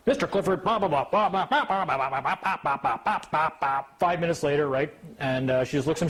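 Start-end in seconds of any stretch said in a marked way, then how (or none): 0.1-3.8 high mock judge rattling on; droning judge. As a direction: parody her endless babble.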